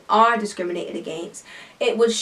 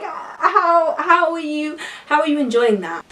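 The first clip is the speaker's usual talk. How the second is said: high, laughing disbelief at the music; a squeaky, mocking how are you enjoying that; incredulous mock question; 7 semitones higher than usual. Mocking drum and bass fans, high and incredulous. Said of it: "I'm just like".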